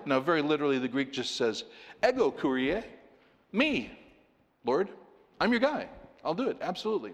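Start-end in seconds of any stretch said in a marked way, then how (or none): 2.1-7.1 eager, high-pitched pledge; an eager son eagerly assuring the Lord; very emphatic. Retold or imitated. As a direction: promise it with gusto. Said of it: "Very emphatic".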